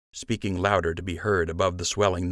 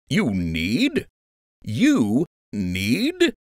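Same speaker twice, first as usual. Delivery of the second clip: rising scornful repetition, a different gruff voice; angry officer; 5 semitones higher, much slower than usual. A narrator's reading. Lieutenant mocking Joe's need, scornful. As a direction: throw his words back at him.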